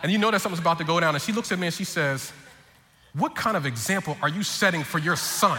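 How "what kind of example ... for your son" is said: intent wifely reproach. Retold or imitated. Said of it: "looks at me very intently in the eyes".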